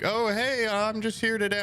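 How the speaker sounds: chirpy door-to-door salesman act; cheery salesman. Retold or imitated. Solicitor greeting the streamer at the door, high and chipper. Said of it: "The guy's like".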